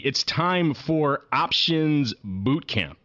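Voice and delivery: lightly barked drill sergeant orders; playful boot camp drill sergeant; drill instructor. Pretend. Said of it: "you will hear me say anything like a drill instructor".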